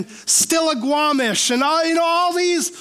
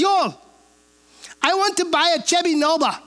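put-on light Mexican accent. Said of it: "he had a pretty distinct accent".

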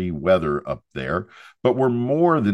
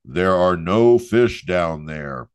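voice from above; 3 dB louder, much slower than usual. Retold or imitated. Joke teller voicing the voice over the ice hole, slow and solemn. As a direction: spell it out slowly like a voice from the sky. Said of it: "the voice".

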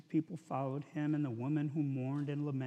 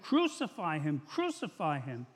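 louder first crucify, then falling off; mob shout; 3 dB louder than usual. Acted. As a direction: call it out like the crowd. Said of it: "but they shouted".

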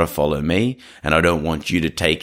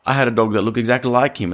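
high, gushing dog lover; a stranger rushing up to coo over the dog; 6 semitones higher than usual. Retold or imitated. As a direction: squeal like a stranger who adores dogs. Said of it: "someone goes".

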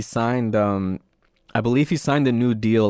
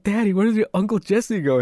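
high little-girl voice, mild imitation; squeaky kid voice, half-joking; Olsen twins voice; 12 semitones higher than usual. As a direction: lightly mimic a small child asking her dad. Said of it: "Conan was doing, like, the Olsen twins".

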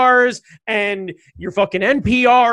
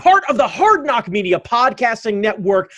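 ringmaster. Pretend. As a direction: roll it out like a circus ringmaster. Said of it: "hit me with the intro".

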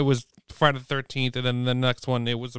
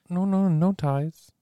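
firm refusal; 4 semitones higher, slower than usual. Real, not acted. Refusing a tie in the ranking.

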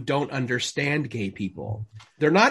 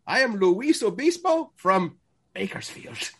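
mock grand introduction; 7 semitones higher than usual. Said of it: "they're like".

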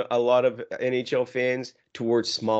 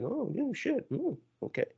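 sheepish realisation. Retold or imitated. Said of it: "And then you're like".

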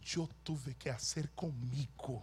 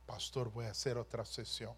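faint weak voice; 4 semitones lower, 8 dB quieter than usual. Retold or imitated. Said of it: "La voz, la mínima".

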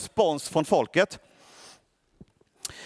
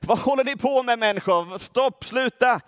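crying out; 7 semitones higher than usual. Acted. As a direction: plead with the crowd to stop. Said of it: "rusade in bland folket och ropade".

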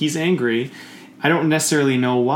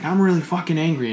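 higher-pitched, lightly acted anger; mock angry; 4 semitones higher than usual. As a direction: act out someone mildly fired up. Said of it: "their tone is super angry".

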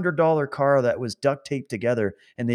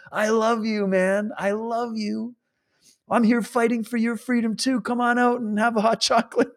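high-pitched, sing-out friendly appeal; reenacted loving reply; retold friendly call-out; 10 semitones higher than usual. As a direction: call out kindly to a heckler, voice raised high. Quotes own cheerful reply to heckler.

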